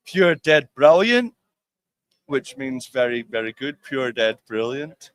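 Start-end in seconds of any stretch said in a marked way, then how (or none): 0.1-1.3 slow Glasgow "pure dead brilliant", the r rolled; Glasgow accent. Shown as a demonstration. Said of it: "you might say that". 3.8-5.1 slow Glasgow "pure dead brilliant"; Glasgow accent. Shown as a demonstration. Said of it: "try it with me".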